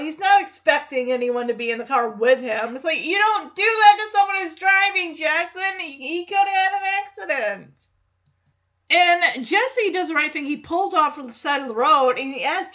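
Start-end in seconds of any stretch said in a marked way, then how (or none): 3.0-7.7 higher-pitched mild alarm; acted freaked-out telling-off. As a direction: scold as if badly startled. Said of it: "Jesse is freaked out".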